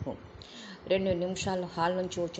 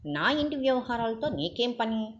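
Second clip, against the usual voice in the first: indignant; 5 semitones higher than usual. Acted. Father rebukes intruder.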